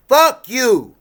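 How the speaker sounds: sudden high furious shout; a real burst of rage at his daughters; angry yell. Real, not acted. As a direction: blow up at them, loud and high.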